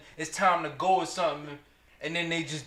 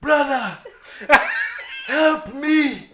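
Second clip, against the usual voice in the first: high, loud cry for help through laughter; mock plea; 7 semitones higher, 6 dB louder, much slower than usual. Dad imitating son quoting Lion King, hammed-up plea. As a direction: imitate a kid's dramatic movie plea. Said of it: "it was Scar. He said, "Scar, help me".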